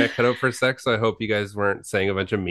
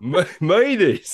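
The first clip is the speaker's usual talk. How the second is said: put-on Boston accent; 8 semitones higher, slower than usual. Mocking the Boston accent reply.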